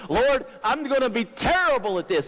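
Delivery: high, pleading complaint to God; whiny Moses. Retold or imitated. Moses whining to the Lord that he can't, high and pleading. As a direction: whine like a doubting Moses.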